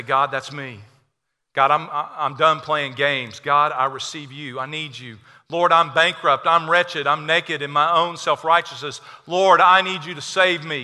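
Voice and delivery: sinner's prayer. Acted.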